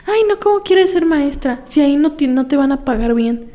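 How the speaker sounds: high, dismissive teacher voice mimicking her; mocking teacher. Secondary teacher belittling a student's dream, high scoffing.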